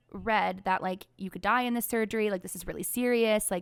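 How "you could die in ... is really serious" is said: ordinary talk, nothing marked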